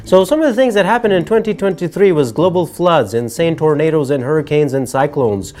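emphatic rundown, each item punched separately; energetic scripted delivery, stretching key items; presenter list read. Acted. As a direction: read the year's events like a commentary show. Reads scripted list of disasters.

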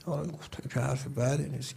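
soft unvoiced whisper, confiding; a hushed side remark to the audience; whispered aside. Real, not acted. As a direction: lean in and whisper it as a private aside. Whispered aside during retold story.

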